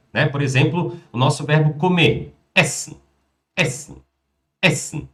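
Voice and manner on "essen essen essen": "Essen" with a short, quick first vowel. Shown as a demonstration. Teacher demonstrates short vowels to students, "Essen" said short. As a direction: say "Essen" crisply short, like a single clap. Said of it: "Pronúncia curta, por isso que eu falo que é palminha".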